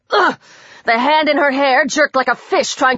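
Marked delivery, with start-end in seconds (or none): 0.1-0.3 deep guttural grunt of pain; short guttural "ugh"; strangled grunt. A narrator's reading. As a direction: choke out a low grunt. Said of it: "a strangled grunt, a deep and guttural".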